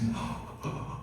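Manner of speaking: mimicked heaving breath of a man bawling; acted breathy sob; imitated sobbing gasp. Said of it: "he's not crying. No, he's not".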